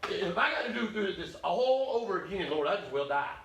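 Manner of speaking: weary Elijah. Acted. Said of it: "he said".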